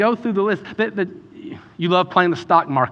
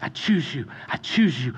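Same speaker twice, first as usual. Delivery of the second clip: tender father's words; 2 semitones lower, 4 dB quieter than usual. Acted. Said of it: "your Father's voice saying".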